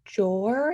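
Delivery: "jor" with a J sound for D; disordered jor. Shown as a demonstration. Student demoing a speech error, "jor" with J. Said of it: "saying jor instead of door".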